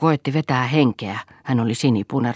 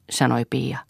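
ordinary delivery

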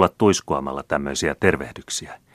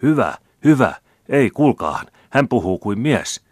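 much higher, louder approving shouts; rowdy cheering; 7 semitones higher, 7 dB louder than usual. A narrator's reading. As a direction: roar approval. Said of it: "rähisi helposti petettävä joukko".

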